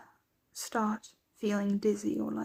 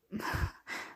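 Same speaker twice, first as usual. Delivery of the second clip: dismissive soft laugh; 9 dB quieter than usual. Acted. Laughs off being called worried.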